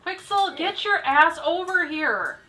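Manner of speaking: yelling at a character. Real, not acted.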